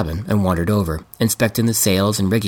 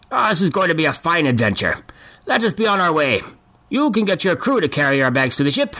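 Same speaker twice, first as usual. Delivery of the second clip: put-on old man voice; 7 semitones higher than usual. Bart orders bags carried.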